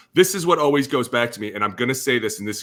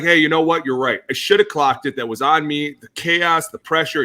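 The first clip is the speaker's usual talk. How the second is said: firm ownership; 4 dB louder than usual. Retold or imitated. Imagined Kirk owning the mistake.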